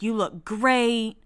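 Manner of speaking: drawn-out imitated compliment, slow; hyping her up. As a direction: mimic a friend hyping someone up, stretching it out. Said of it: "hyping her up".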